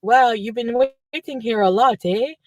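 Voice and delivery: imitated French Canadian volunteer; mock French Canadian English; French Canadian accent. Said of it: "gonna try to imitate it".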